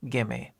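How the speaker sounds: "gimme." blended into one word; linked gimme. Shown as a demonstration. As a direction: give me merged. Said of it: "give and me become".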